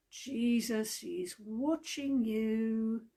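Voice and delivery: very slow, drawn-out unseen voice; the hidden voice warning the burglar, eerie and very slow; eerie mystery voice. Acted. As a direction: stretch it out eerily, like a ghost. Mystery voice, third time.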